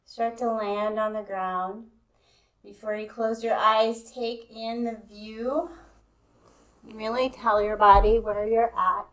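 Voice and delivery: calm, even guidance with long pauses; guided meditation. Real, not acted. Yoga teacher easing students into Yoga Nidra, guided meditation. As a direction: settle them in, leaving space between phrases.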